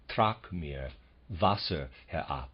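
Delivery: German line with the stress falling first, "Trag" strong and "mir" weak; trochaic verse recited. Shown as a demonstration. Lecturer shows the trochaic rhythm to students, strong beat first. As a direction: start on the strong beat and fall away to the weak. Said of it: "This is just the reverse of the previous example".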